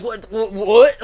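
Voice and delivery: imitated stammering shock, jumping loud at the end; freaking out. Fan imitating a character freaking out at screams, startled. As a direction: build to a loud, startled mock outburst. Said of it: "she's fucking freaking out".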